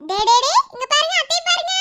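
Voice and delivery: high, loud playful coo; excited baby talk. Acted. Aunt wants baby to look, high excited baby talk. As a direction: coax the baby to look at you. Aunt calls baby's attention.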